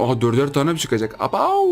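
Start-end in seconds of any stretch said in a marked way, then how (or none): 1.2-1.7 sharp high yelp of shock; surprised yelp. Real, not acted. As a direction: jolt up in real amazement. Sudden surprise at game loot. (ani şaşkınlık çığlığı)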